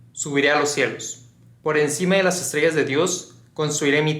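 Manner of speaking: declaimed verse with deliberate pauses; scripture reading. Acted. Narrator quotes Isaiah on Lucifer's fall, measured scripture reading. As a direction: recite scripture line by line, solemnly paced. Reads Isaiah passage aloud.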